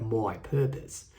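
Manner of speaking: mock Australian accent on my purpose; playful hint of Australian accent. Shown as a demonstration. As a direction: lightly repeat it the Australian way, slowly. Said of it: "said in a real Australian accent".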